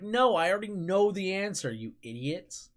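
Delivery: retold exasperated comeback; mock exasperation. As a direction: act out fed-up impatience, starting high. Retells exasperated retort to teammates.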